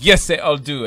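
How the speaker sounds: put-on French-accented emphatic confirmation. French wife answering a guest about affairs, French accent. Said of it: "That's my French story".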